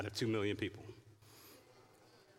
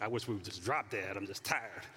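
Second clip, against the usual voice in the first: dramatic weary moan; 4 semitones lower than usual. Retold or imitated. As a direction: sigh it out like a drama queen. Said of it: "So dramatic".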